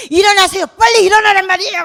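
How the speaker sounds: high, loud, fast desperate pleading; panicked wake-up shout. Pretend. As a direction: yell at him to wake up in a storm. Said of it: "명령할 수 있는 그런 위치가 아니거든요".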